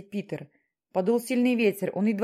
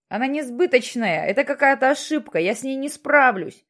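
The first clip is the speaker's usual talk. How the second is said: louder, higher cry of despair; desperate shout; 4 semitones higher, 5 dB louder than usual. A narrator's reading. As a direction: shout it out, torn apart inside. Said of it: "кричал Джексон". (отчаянный крик, выше и громче)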